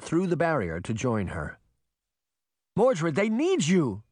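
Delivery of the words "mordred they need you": higher, slow, pleading cry; cried. A narrator's reading. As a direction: beg her son to go back. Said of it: "Morgan cried".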